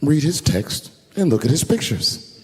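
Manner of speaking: slow, calm, even instruction; lightly voiced calm girlfriend. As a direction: girlfriend calmly tells him to read the texts. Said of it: "And she was calm".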